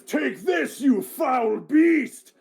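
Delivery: shouted high and loud, dragging out the last words; a warrior roaring his challenge at the beast; battle cry. Acted. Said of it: "as he says".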